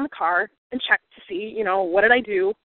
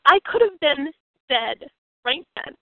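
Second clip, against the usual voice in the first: slow, choked-up admission; emotional; 2 semitones higher, slower than usual. Real, not acted. Speaker telling listeners of her near-death, slow and emotional. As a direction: let the feeling catch in the voice. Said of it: "I'm getting a little emotional here".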